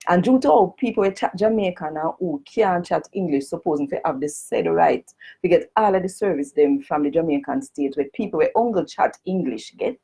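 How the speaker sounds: formal petition read in broad Jamaican patois. Shown as a demonstration. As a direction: read it out in full Jamaican Creole. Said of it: "I'm gonna read it first in a the Jamaican language".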